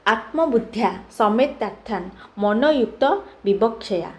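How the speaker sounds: slow, measured reading of a verse; Sanskrit verse recitation. Acted. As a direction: recite it slowly, phrase by phrase. (ଧୀରେ ସଂସ୍କୃତ ଶ୍ଳୋକ ପାଠ)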